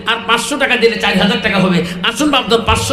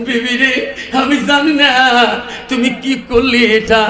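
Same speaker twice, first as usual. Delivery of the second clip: sing-song wail of regret; acted, drawn-out grieving; mock crying lament. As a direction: lament tunefully, as a weeping son. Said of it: "ছেলে কান্দে আর বলে".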